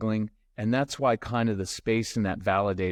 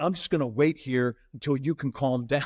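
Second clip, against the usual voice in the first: smug parent. Retold or imitated. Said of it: "That doesn't work".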